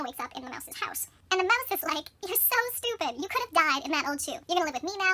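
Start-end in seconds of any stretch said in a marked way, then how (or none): 2.3-5.1 mock scolding. Mouse scolds rescued Thumbelina, emphatic mock scolding. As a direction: scold her briskly in mock exasperation.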